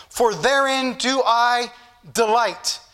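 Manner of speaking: very slow, drawn-out verse ending; deliberate pulpit recitation; scripture reading. Real, not acted. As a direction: stretch the verse out with pauses. Reads scripture to congregation.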